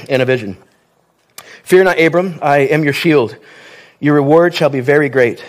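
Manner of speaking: measured reading of scripture to the congregation. Acted. Preacher reads Genesis fifteen to the church, solemn reading. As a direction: read the passage steady and solemn.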